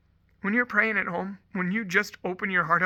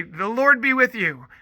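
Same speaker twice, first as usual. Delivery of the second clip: teacher's prompt; 4 semitones higher, 5 dB louder than usual. Retold or imitated. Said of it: "And I say".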